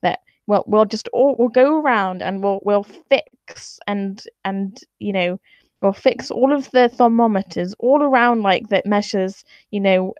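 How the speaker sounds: lightly voiced conspiratorial scientist; mock-excited plotting whisper among scientists. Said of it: "decided that".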